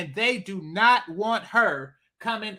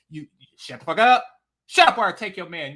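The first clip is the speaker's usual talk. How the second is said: louder, brash voice of the homewrecker; mock threat; 5 dB louder, faster than usual. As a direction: snap it at them as her. Voicing the woman's threat.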